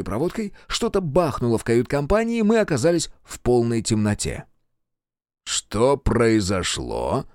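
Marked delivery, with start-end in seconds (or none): 5.4-7.3 slow, steady, holding it together; forced calm. Acted. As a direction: keep your voice calm despite panic. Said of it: "стараясь сохранять спокойствие".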